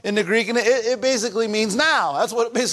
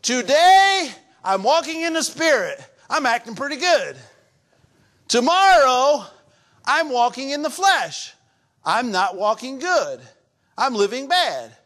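mocking misreader; 3 semitones higher than usual. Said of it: "as many people believe, and I believe to be wrong".

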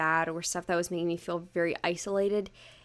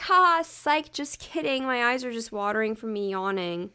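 playful gotcha; 3 semitones higher, 3 dB louder than usual. Retold or imitated. Acting out the prank reveal.

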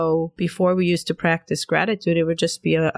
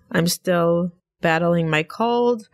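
nasal voice. Real, not acted. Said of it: "Sorry about my nasal voice".

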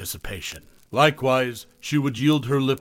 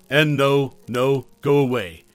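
panicked exclaim; 2 semitones higher, 5 dB louder than usual. A narrator's reading. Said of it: "he exclaimed".

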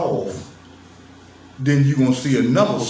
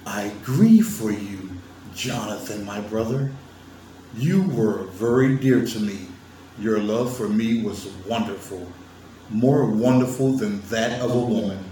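mock biblical voice; 2 semitones lower than usual. Shown as a demonstration. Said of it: "I'm using the voice that I think that they was sounding like".

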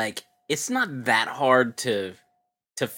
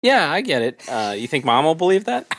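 mock Rusty; 4 semitones higher, 5 dB louder than usual. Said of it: "Rusty's like".

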